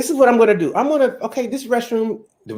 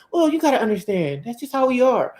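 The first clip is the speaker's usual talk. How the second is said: mock ladies; 5 semitones higher than usual. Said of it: "all the ladies, they ... out here".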